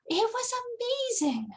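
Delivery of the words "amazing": plain reading voice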